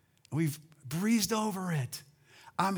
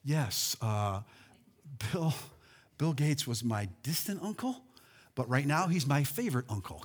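smug heir; 4 semitones lower, 4 dB quieter than usual. Acted. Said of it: "you'd be like".

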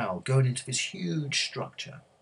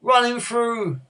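high, drawn-out bloodthirsty yell; loud heckler's demand for a kill; shouted; 12 semitones higher, 9 dB louder, slower than usual. A narrator's reading. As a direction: yell it slowly from the stands. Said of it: "someone shouted".

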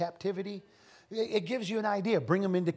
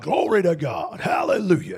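preacher shout; 2 semitones lower, 8 dB louder than usual. Retold or imitated. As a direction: shout it out loud like a Louisiana preacher. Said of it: "And he was like".

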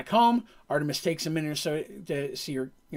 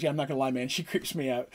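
nervous wizard; 3 semitones lower, 6 dB quieter than usual. Retold or imitated. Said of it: "becoming allies because".

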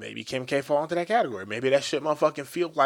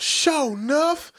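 higher, slow, drawn-out mock yell; imitating a yell; 13 semitones higher, 3 dB louder, much slower than usual. Imitating a coworker's hourly outburst, slow mock yell. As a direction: call it out like the coworker. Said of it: "this motherfucker yells out".

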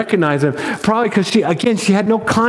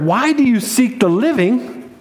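slow, raised, puzzled question; confused angels; 4 semitones higher than usual. Acted. Angels question Mary in Luke's gospel, confused. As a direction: ask it slowly, as if baffled. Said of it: "They're confused".

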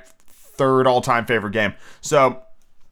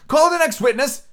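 king voice; 13 semitones higher, 4 dB louder than usual. Acted.

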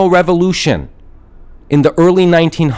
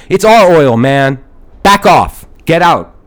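mock angry shout; 4 dB louder, slower than usual. Mossadegh chasing the British off.

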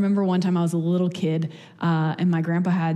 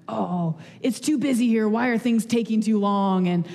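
mock rude customer; 4 semitones higher than usual. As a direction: play the impatient, hangry diner half-jokingly. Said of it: "just the worst and rude".

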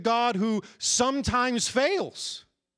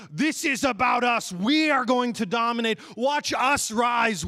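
emphatic team boast, stretching the last words; self-focused boast; 4 semitones higher than usual. Acted. Preacher voicing self-focused athletes, emphatic boasting. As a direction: declare dominance like a haka. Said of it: "there's a degree of, like".

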